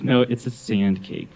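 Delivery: slow, matter-of-fact correction; dead serious. Retold or imitated. Niece to laughing uncle, imitated dead-serious correction. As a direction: correct them slowly without a hint of joking. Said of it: "just dead serious".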